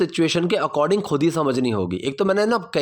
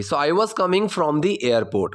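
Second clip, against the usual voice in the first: slow model sentence; much slower than usual. Shown as a demonstration. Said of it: "teacher models the sentence".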